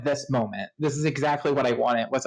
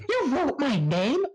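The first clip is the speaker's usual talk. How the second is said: high, drawn-out hammy outburst; hammed-up shrieking climax; over-the-top yelling; slower than usual. Reveal of names in the Death Note, overblown yelling. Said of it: "over the top yelling".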